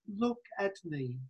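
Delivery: very soft, hushed look at me. Acted. Preacher voicing Jesus's closing plea to Philip, hushed. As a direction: let it fall to a near hush. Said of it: "Jesus is saying to Philip".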